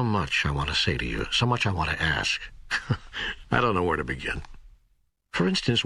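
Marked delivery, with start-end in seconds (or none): 2.4-3.4 soft, brief chuckle; small laugh. Acted. Questioner with too much to ask God, soft chuckle. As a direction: let out a quiet little laugh.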